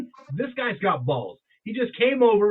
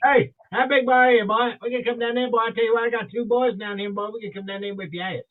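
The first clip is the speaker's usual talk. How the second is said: put-on Southern accent; 3 semitones higher than usual. Host imitating a guy from Missouri, mock-threatening Southern accent. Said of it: "what a guy from Missouri told me".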